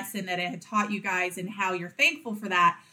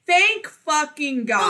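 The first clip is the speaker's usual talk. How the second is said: relieved cursing; 5 semitones higher, 4 dB louder, much slower than usual. Pretend. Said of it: "you know you wanna say".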